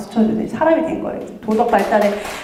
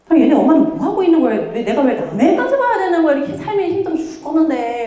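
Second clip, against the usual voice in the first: fast, higher, annoyed mock complaint; irritated grumbling; 4 semitones higher than usual. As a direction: grumble like a fed-up mom at the playground. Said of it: "아우, 귀찮아요".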